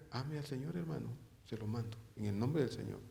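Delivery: gentle quoted command. Shown as a demonstration. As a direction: ask it quietly, almost a plea. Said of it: "¿necesitará usted que yo le diga".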